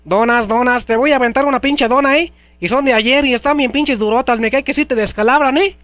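bellowing donut seller; loud street vendor. Acted. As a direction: hawk donuts at full volume. Vendor hawking donuts loudly.

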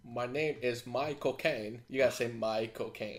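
slightly hammed-up Cockney impression; Michael Caine accent. Shown as a demonstration. Fan showing how to say the actor's name, mock Cockney accent. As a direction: show off a British accent, running the name together. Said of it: "Michael Caine accent".

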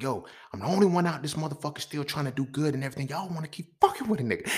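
high-pitched, aggrieved wail; retold tearful protest. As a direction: protest as if worked up to tears. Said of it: "I cried. I was like".

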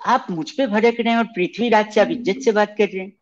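put-on high, sulky little-kid complaint; whiny childish voice. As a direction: pout like a hurt child. Childish prank caller complains.

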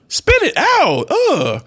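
high, sudden self-scolding outburst; mock-frustrated yelp at a fumble; exasperated at self. Real, not acted. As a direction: force it out after a tongue-tie. Scolds self after stumbling on words.

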